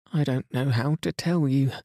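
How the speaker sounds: high, upset and flustered; struggling to get the words out; distressed maid. A narrator's reading. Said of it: "She was crying and wringing her hands".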